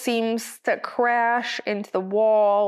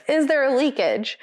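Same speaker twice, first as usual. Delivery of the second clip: imitated quote in an American accent, higher pitch; 5 semitones higher than usual. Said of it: "do it in an American accent".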